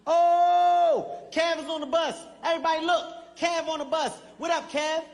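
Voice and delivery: put-on high, excited kids on the bus; hyped schoolkids cheering; hyped friends. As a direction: greet him like a celebrity. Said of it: "They get hyped".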